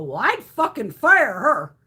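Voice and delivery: loud and slow, emphatic; emphatic loud declaration. Retold or imitated. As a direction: say it loud and deliberate. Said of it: "I go".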